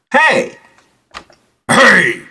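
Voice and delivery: mocking high-octave calls; two high-pitched copycat calls; mimicked high hey. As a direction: imitate his too-high hey. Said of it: "you can change the octaves".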